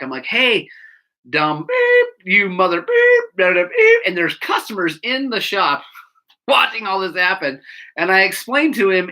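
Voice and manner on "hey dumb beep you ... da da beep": high mock yell, building louder; retold scream back. Mechanic cursing back at the customer, mock screaming. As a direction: act out yelling insults back. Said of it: "I screamed at him back".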